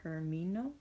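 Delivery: whispered Termino; hushed whisper of the name. Real, not acted. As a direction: breathe the word Termino.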